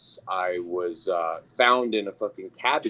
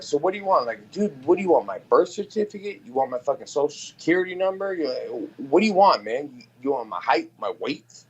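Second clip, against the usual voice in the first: raised, higher exasperated rant; mock exasperated rant; 5 semitones higher, faster than usual. Ranting at a friend who calls him a liar. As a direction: throw the questions at him, fed up. Retold heated argument.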